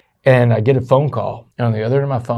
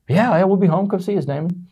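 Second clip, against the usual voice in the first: dad's voice; 8 semitones higher than usual. Retold or imitated. Dad voiced in retold phone call.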